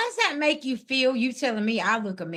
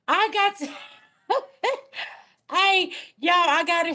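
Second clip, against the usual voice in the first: laughing through the words, higher; 7 semitones higher than usual. Real, not acted. Streamer laughing at a viewer's message, laughing. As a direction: giggle as the words spill out.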